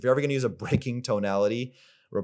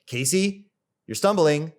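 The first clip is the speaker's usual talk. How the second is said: raised, firm self-correction; stern inner coach; 5 semitones higher than usual. Shown as a demonstration. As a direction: snap yourself out of it like a coach.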